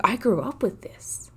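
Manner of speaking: breathy whisper of disbelief; whispered thought. Retold or imitated. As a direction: whisper it like a stunned realization. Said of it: "I was like".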